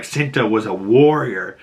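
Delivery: dramatic angry tirade climbing high in pitch; pissed-off, acted. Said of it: "the girl's so pissed".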